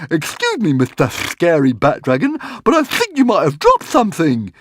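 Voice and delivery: high, polite little squeak; squeaky Hogfly. Acted. Hogfly politely telling the dragon about its tail, squeaking. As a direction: squeak it helpfully like a tiny pig-fly. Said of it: "squeaked the Hogfly".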